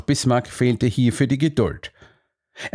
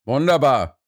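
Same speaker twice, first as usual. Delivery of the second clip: relieved exclamation, pitched up; pleased, higher exclamation; delighted call; 4 semitones higher than usual. A narrator's reading. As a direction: cry out with fresh hope. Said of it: "rief er".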